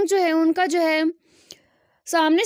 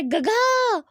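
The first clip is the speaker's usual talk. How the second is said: calling out; 5 semitones higher, much slower than usual. Retold or imitated. Boy seeing his cousin fall, crying out. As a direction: call out गगा in shock, pitched up. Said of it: "वो ज़ोर से चिल्लाता है".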